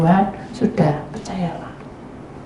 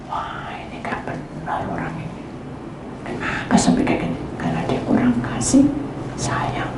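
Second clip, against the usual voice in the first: whisper; 2 semitones lower, 8 dB quieter than usual. Retold or imitated. Inner thoughts about the girl.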